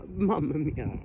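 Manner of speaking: slow, hammed-up Italian exclamation; playful fake Italian, drawn out; mock Italian accent. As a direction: put on a stock Italian accent. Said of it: "I keep offending different groups of people".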